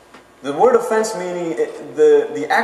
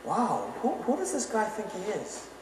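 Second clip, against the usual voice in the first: scoffing crowd; 4 semitones higher, 9 dB quieter than usual. Retold or imitated. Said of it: "their response ... is".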